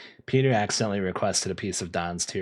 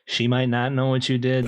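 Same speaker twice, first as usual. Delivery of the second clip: mock preacher; 4 semitones higher, 6 dB louder than usual. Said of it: "no gibberish tonight".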